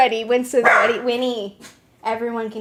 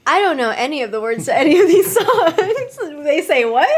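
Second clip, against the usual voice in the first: laughing; 6 semitones higher, 5 dB louder than usual. Real, not acted. Laughing at unknown lyrics.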